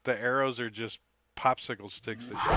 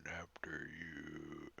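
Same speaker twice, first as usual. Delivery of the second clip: breathy slow whisper; 6 semitones lower, 7 dB quieter, much slower than usual. Acted. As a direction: hush it out slowly. Quinn quietly speaks in character.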